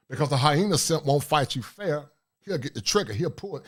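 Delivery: ordinary talk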